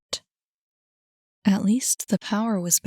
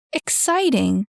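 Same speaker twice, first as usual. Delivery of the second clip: raised, scornful scoff of a question; incredulous scoff; 4 semitones higher, 4 dB louder than usual. A narrator's reading. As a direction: scoff at the word. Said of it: "scoffed Ian".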